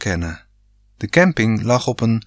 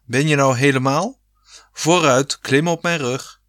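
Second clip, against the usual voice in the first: father; 4 semitones higher than usual. A narrator's reading. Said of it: "riep pa".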